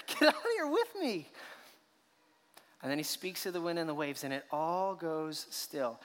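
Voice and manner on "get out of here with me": voicing Jesus inviting. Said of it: "he invites Peter".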